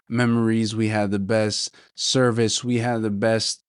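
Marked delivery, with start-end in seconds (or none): 2.6-3.6 catching throat, voice breaking off; words snagged by a frog in throat. Real, not acted. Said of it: "I got a frog in my throat".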